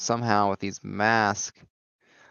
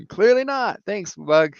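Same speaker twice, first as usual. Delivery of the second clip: voiced quip; 8 semitones higher than usual. Glider quip voiced in fight.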